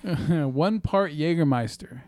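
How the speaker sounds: mock German voice. Reading the cocktail recipe on the podcast in mock German. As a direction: read the recipe in a put-on German accent. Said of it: "If you're going to do the German voice".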